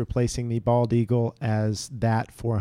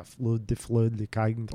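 mock Swedish chef; 2 semitones lower, 5 dB quieter, slower than usual. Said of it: "like a Swedish chef".

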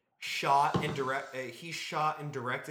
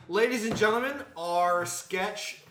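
mock-formal announcer reveal; grand announcement; slower than usual. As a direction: announce the winner slowly and ceremoniously. Announcing the vote's winning sketch.

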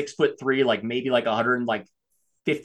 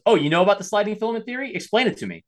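quick, high, teasing disbelief; mocking challenge; 7 semitones higher, faster than usual. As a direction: call his bluff with a smirk. Matt challenging the kid.

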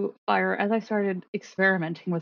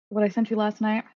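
shocked shout. Real, not acted. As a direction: shriek in shocked surprise. Shocked shout after reading message.

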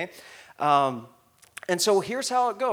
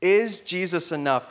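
congregation repeat; 7 dB louder than usual. Shown as a demonstration. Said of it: "Can you say that with me?".

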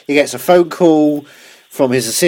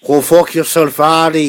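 lightly voiced Liam Neeson; a hint of gruff Liam Neeson; Liam Neeson impression; 3 semitones higher, 3 dB louder than usual. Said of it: "exactly what he says in that intonation".

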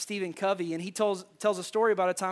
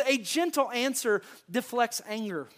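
slow scripture read; 3 semitones higher than usual. Shown as a demonstration. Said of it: "here's what the scripture says".

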